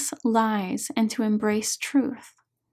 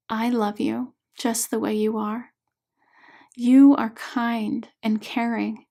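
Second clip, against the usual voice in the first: tender. Acted. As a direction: speak gently to the little girl within. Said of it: "with lots of tenderness in her voice".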